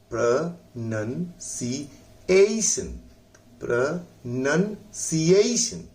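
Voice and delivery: प्रोनंसिएशन slow, with ए ई stressed. Shown as a demonstration. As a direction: lean on the ए ई of प्रोनंसिएशन. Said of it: "इस पर जोर देकर पढ़ना है". (ए ई पर जोर देकर प्रोनंसिएशन)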